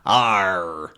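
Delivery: pirate growl. Shown as a demonstration. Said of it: "That's a pirate".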